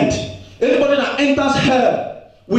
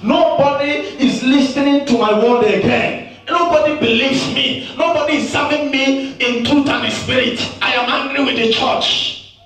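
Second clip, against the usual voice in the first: the Lord's lament, higher and half-sung; voicing the Lord; 3 semitones higher than usual. Preacher quoting the Lord's lament, higher and half-sung. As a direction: intone it like a grieving God. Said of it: "He said".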